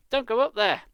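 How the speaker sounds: high, loud plea; loud urgent warning. Acted. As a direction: call up to stop him. Hannah warning Danny, dread.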